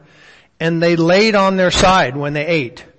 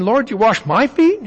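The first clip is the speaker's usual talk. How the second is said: higher-pitched challenge, lifting at "my feet"; arrogant questioning; 5 semitones higher than usual. Acted. Preacher voices Peter questioning Jesus, mildly arrogant. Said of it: "Was he arrogant in saying".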